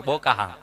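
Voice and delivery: બોકાહા said low and drawn; saying bokaha. Shown as a demonstration. Comedian savours the dialect word બોકાહા, said low. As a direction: relish the village word બોકાહા. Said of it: "બોલો તો જ મજા આવે".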